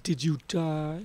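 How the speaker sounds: talking while chewing. Real, not acted. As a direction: mouth full of candy. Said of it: "Sorry, I'm chewing on some Sour Patch Kids".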